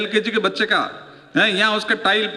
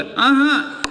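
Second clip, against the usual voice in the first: high-pitched principal; 6 semitones higher, much slower than usual. Retold or imitated. Principal also lisping voiced.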